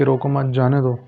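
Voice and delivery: "روکو مت" said as one phrase, then "جانے دو"; group it as "روکو مت", "جانے دو"; pause after مت. Shown as a demonstration. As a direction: keep روکو tied to مت before saying جانے دو. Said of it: "اسی جملے کو دو طریقے سے بیان کروں گا".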